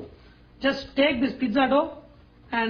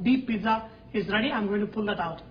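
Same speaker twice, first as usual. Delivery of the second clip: ordinary talk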